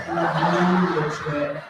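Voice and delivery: "laboratory" low, with puckered lips, English style; exaggerated English "la-BOR-atry" through a tight mouth; English accent. Shown as a demonstration. Tutor demonstrates the mouth shape, English accent. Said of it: "shape your mouth like the puwit ng manok".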